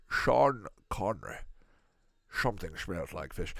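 lightly voiced impression with slurred S sounds; slow the name, hint at the actor's accent; Sean Connery. Host naming the film's star, light actor impression.

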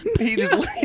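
words breaking into laughter; can't get it out for laughing; giggling while telling the punchline; laughing through the words. Real, not acted. Storyteller cracking up mid-story.

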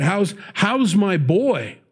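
concerned father. Retold or imitated. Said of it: "Should have said".

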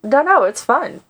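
forced through clenched teeth; gritted teeth. Real, not acted. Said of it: "She says through gritted teeth".

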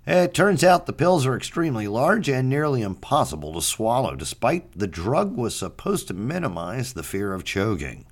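deadpan newscaster voice; news read. Acted. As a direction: read it like a serious news anchor. Mock news bulletin.

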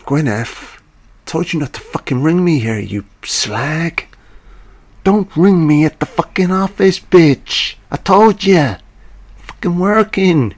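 high, loud mock-angry rant down the phone; hammed-up furious phone shout; furious yelling. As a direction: bawl her out for ringing the office. Husband yelling at wife on phone.

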